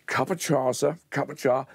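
a mild Cockney lilt on the tea order; lightly put-on Cockney, like a London café; hint of Cockney, calling for tea; Cockney accent. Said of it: "Lovely Cockney".

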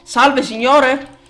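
slow, drawn-out mock courtesy; mock polite greeting. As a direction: greet the monster with fake manners.

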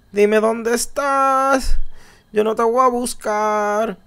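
canturreo bajito y burlón, muy despacio; burla suave y lenta. Pretend. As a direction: provoca al monstruo casi en secreto. Vuelve a la burla al monstruo. (le canta bajito al monstruo para provocarlo, burlón y lento)

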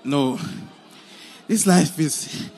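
sad lament. Acted. Husband's sad lament alone.

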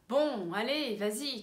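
stretched, swooping "Bon, allez"; impatient. Shown as a demonstration. Teacher urges someone to get moving, impatient. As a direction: hurry someone along with exasperated drawn-out words. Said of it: "Pode mostrar impaciência".

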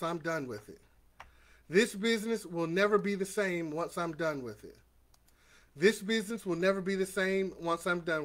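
low, soft, measured chanting of affirmations; affirmation leader. Acted. Coach to his uplifters, quiet steady affirmation lead. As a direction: lead the group through each line for them to repeat. Leads affirmations call and response.

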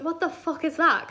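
slow, fully voiced mock disbelief; insistent question. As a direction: spell it out, wanting an answer. Retells the question said again.

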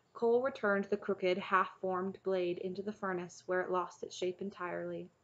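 measured storybook reading; story narration. A narrator's reading. Reader reading a chapter book to listeners, story narration. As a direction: read the tale aloud evenly.

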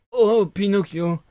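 slow, drawn-out whimpering plea; whining voice. Acted. Fox begging Pinocchio, slow and whining. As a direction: stretch the oh like a beggar. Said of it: "d'une voix pleurnicharde".

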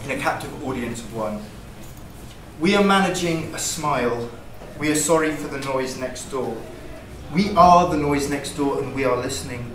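incantatory list, each line opening strong then falling; poem reading. Acted. Poet reads a longer poem to the audience, rhythmic poetry reading. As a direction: recite it as a steady, rhythmic litany.

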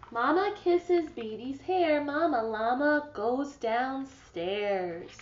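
storytime read-aloud voice; reading to children. Acted. Teacher reads a picture book to her class, storybook voice. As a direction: read it gently to a class of kids.

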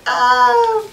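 high squeal of delight; quick fangirl shriek. Real, not acted. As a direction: squeal like a starstruck fan.

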